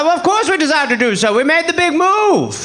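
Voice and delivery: mock-British indignant reply; old English gentleman. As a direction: lift it like a pompous British colonial. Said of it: "two old dusty white dudes are hanging out".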